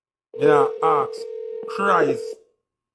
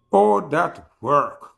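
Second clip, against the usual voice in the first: slow mocking question; 3 semitones higher, much slower than usual. Real, not acted. Repeated slower mocking question.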